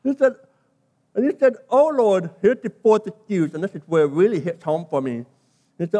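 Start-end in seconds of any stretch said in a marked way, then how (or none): 1.7-2.3 mildly acted plea, higher and a bit louder; hammed-up imploring address; begging. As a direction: beg with a falling cry to heaven. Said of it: "begging God".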